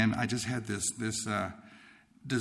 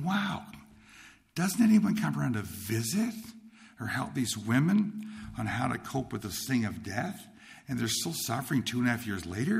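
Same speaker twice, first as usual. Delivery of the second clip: retold incredulous wondering. Young man wonders who helps suffering widows, incredulous. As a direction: wonder aloud, lifting into a question. Young man's troubled questioning thought.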